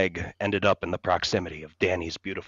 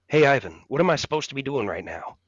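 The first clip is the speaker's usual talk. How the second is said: lightly voiced New Jersey accent, higher and louder; a tough guy from New Jersey, quick and surly; 6 semitones higher, 5 dB louder, faster than usual. A narrator's reading. Danny DeVito asks the director, surly New Jersey accent. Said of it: "in his surly, sexy New Jersey accent".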